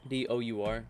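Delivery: letter by letter, evenly; spelling out letters. Shown as a demonstration. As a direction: spell each letter separately. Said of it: "How you spell that?".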